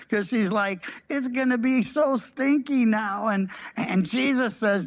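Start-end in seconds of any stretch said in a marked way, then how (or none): 1.1-3.3 higher, hammed-up reluctance; mock balking. Preacher voicing Martha balking at the stone's removal, mock reluctance. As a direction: imitate a squeamish protest about the smell. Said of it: "She balks at the command".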